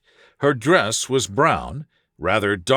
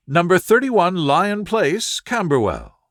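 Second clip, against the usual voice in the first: put-on higher, earnest voice of a worried young woman; anxious young lady; 6 semitones higher than usual. A distressed visitor telling Holmes her fiancé vanished, higher and anxious. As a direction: plead your case, raised and anxious.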